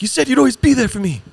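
high, loud whiny lion cub; squeaky, hammed-up plea; Simba. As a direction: wail it as a wounded child. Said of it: "And he's like".

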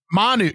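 "Manu" said as MAH-noo; corrective emphasis. Shown as a demonstration. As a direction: put the stress on the first syllable of "Manu". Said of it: "putting the emphasis on the right syllable".

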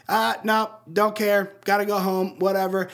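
lightly acted shrug-off of a plea for help; disenfranchised Peter Parker. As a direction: wave them away in short phrases. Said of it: "like, disenfranchised".

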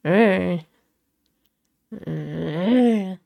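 low sleepy nightmare moan; zombie moan. Retold or imitated. Imitating Dad moaning in his nightmare, zombie moan. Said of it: "two little zombie moans".

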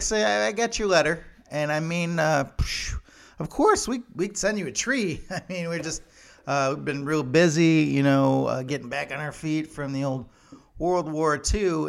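a hint of a Norwegian accent making excuses; bad Norwegian accent. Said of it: "My Norwegian isn't that good".

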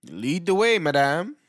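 loud, high flourish; grand announcer flourish. Acted. Co-host ushering her in, loud and high. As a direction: sweep her in like a butler announcing royalty.

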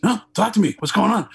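super upbeat. Retold or imitated. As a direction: insist happily. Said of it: "he's, like, super upbeat".

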